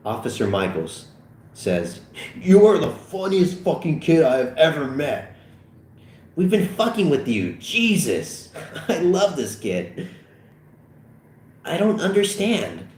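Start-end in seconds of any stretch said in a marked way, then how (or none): 2.4-10.1 high, delighted exclaiming with laughter; tickled, high-pitched amusement; hilarity. Acted. Officers cracking up at Fogel. 11.7-12.9 high-pitched confusion; nervous high puzzlement; bewildered. Acted. Fogel baffled by laughing officers.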